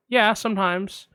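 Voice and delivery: receptionist. Retold or imitated. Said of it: "I'm gonna play both parts".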